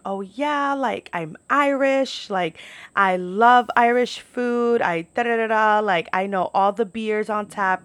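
imitating an eager, boastful girl; excited, proud customer. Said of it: "so excited to be there".

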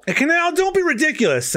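high, mocking disbelief; scoffing character voice. Reading a manga character's retort.

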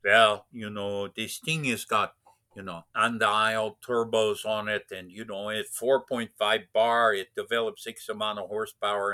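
lightly imitated German accent; hint at a German engineer explaining his car. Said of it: "thick German accent".

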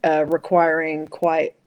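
effortful put-on American accent. Shown as a demonstration. Aussie struggling to keep it up, effortful American accent. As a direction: labour through an American accent. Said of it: "trying to do an American accent".

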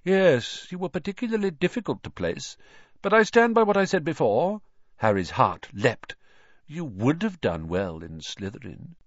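high, quick hat voice; talking hat. Acted. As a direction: pitch it well up, brisk and sure.

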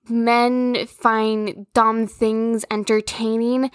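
slow and drawn out, each word laid down; slow deliberate statement. Shown as a demonstration. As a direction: spell it out slowly like an obvious truth. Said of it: "I'm gonna be honest".

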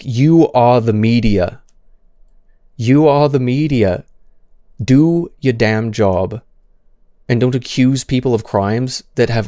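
slow, emphatic real indignation; indignant scolding. Real, not acted. Streamer berating the media over false accusations, indignant. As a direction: scold them, leaning hard on each word.

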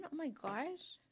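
slight New York twang on GOSH; real, unforced hint of a New York accent. Real, not acted. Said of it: "say it like a New York accent".

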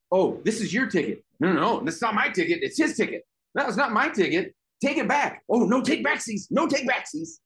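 put-on high-pitched, quick childish bickering; mock schoolyard back-and-forth, rising in pitch; playground squabble. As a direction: argue like kids playing tag. Acted playground squabble over tickets.

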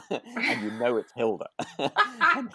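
laughing. Real, not acted. Laughing while retelling the scene.

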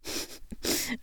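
soft breathy snicker; short quiet snigger through the breath. A narrator's reading. Woman snickers at her own decaf joke, soft snicker. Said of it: "I snickered".

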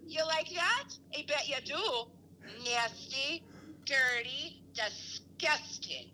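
disgusting drawn out slow at the end; mom voice. Retold or imitated. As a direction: taunt him in a mocking mom voice. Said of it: "while I was doing my mom voice".

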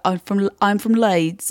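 slow Northern English, Leeds; stretched-out Leeds vowels; Leeds accent. Acted. Mel B saying where she's from, Leeds accent. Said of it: "She's always like".

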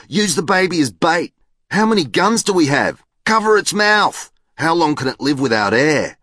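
high-pitched volley of eager shouts; acted children shouting suggestions; excited calling out. A narrator's reading. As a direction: fire off ideas like clamouring kids. Kids shouting out rapid suggestions.

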